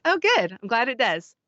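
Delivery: brightly pleased, retelling her own answer; delighted reply. Retold or imitated. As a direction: jump up high on oh good, then settle. Cheerful reply to a stranger.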